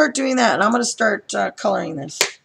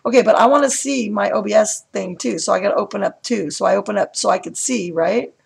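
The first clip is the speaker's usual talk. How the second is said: toned down; 5 semitones lower, 6 dB quieter than usual. Real, not acted. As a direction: voice pulled lower and softer. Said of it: "like, in a normal amount?".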